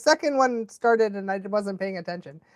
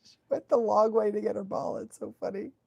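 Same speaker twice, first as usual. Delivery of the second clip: whispered; 7 dB quieter than usual. Real, not acted. Whispered comment.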